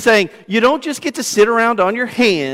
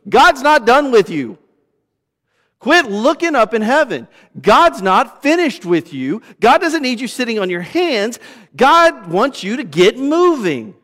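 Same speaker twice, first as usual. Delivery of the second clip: raised, emphatic angel's rebuke, louder; an angel telling the staring disciples to get moving; angel's urging; 5 semitones higher, 3 dB louder than usual. Retold or imitated. Preacher voicing an angel scolding disciples, emphatic and raised. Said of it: "an angel shows up and goes".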